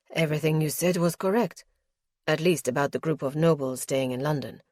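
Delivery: a lightly deepened nobleman reporting calmly; lightly voiced lord, measured and guarded; Justin's voice. Justin's voice in dialogue.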